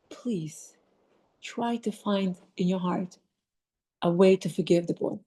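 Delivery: soft, whispered please, then low and calm; gentle plea. Retold or imitated. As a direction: coax him quietly toward forgiveness. Principal gently urging forgiveness.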